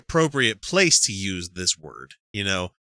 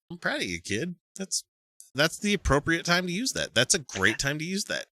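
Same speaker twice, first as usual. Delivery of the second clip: soft, higher, tender praise; mock proud parent; 6 semitones higher, 6 dB quieter than usual. Dad voicing his praise for a swearing kid, softly proud. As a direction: gently gush with pride at your kid.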